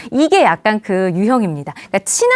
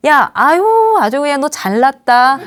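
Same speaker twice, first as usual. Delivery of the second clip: acted exasperated sneer; mock praise from a cross boss; raised, scornful boss retort; angry sarcasm; 2 semitones higher than usual. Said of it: "또 화내요".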